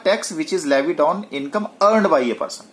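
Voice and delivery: very slow, each word spelled out; slow dictation. Shown as a demonstration. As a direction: dictate the definition slowly to the class. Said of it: "तो मैंने क्या कहा?".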